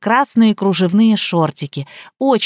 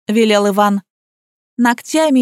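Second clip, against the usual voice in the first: ordinary delivery, nothing marked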